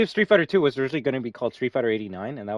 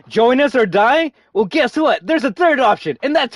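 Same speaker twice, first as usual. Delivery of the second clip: slow, higher mock-heroic delivery; defiant game hero line; 9 semitones higher, 5 dB louder than usual. Streamer quoting a favourite game line, mock-heroic. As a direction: build up like an action hero. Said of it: "just to hear that shit".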